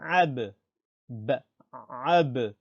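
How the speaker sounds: ab starting with a squeezed throat sound; ain in ab. Shown as a demonstration. Teacher drilling the letter, ab with ain. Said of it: "c'est ain".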